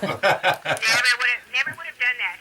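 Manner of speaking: laughing while repeating the joke; amused laughing echo. Real, not acted. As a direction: chuckle through the words.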